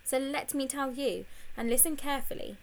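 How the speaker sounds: bossy command; ordering. Acted. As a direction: boss him into listening. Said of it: "she ordered".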